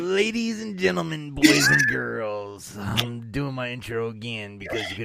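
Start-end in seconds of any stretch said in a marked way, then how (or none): 0.0-2.8 ringmaster. Acted. Host opening show like announcer.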